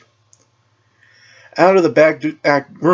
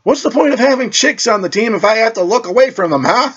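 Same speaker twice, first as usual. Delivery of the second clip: indignant complaint; 11 semitones higher than usual. Acted. Complaining in disbelief.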